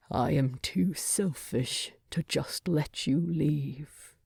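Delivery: a hint of a low, resigned dwarf king; lightly voiced Thorin.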